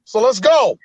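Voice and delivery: mock Bernie speech.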